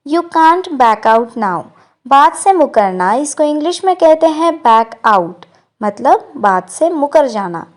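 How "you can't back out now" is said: very slow, careful English model line; slow model sentence. Shown as a demonstration. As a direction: say each word slowly for learners. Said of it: "तुम अब बात से मुकर नहीं सकते". (धीरे-धीरे साफ़ बोला गया वाक्य)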